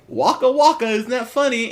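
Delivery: high-pitched mock punchline; corny comedian. Mocking how the movie plays off the gag, corny comedian. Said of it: "movie plays it off like".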